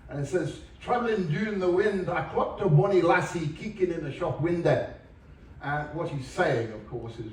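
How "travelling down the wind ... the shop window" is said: rough attempt at a Scottish accent, pitched up. Shown as a demonstration. Lecturer demonstrating Scottish dialect to an audience, Scottish accent. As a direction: read it out in a sort of Scottish accent. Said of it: "read to you in a sort of Scottish accent".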